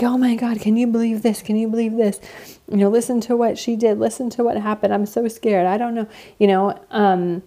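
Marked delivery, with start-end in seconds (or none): 0.0-6.1 higher-pitched, mildly frantic re-enactment; retold upset venting. Retelling panicked calls to a sister, mildly upset. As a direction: act out a worried vent, lightly. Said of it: "I would be so upset".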